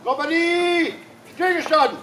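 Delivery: barked drill commands. Real, not acted. Company drill commands at parade.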